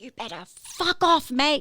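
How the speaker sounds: very loud, rising, screamed shout. The speaker retells a man screaming at a guy near the door, imitating someone screaming. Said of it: "like screaming".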